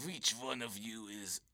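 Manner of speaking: low, slow teacher impression; lightly voiced stern teacher. Teacher questioning kids, slow low mock voice. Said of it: "then he goes".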